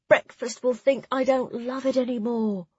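high-pitched hungry whine; plaintive complaint. A narrator's reading. Clara hungry during the long speech, plaintive complaint.

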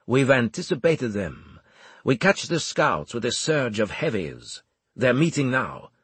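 lightly voiced confident commander; measured commander showing off his plan; a hint of Armel's assured manner.

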